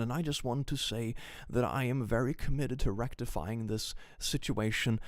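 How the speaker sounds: lightly voiced stiff creator statement; mock corporate apology. Creator reads a vague apology to fans, lightly mocking. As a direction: read out a hollow apology like a school essay. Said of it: "where it's like".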